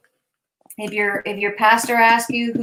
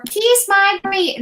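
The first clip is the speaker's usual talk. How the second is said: catchphrase imitation; 9 semitones higher, slower than usual. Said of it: "No, that's Miss Penny's".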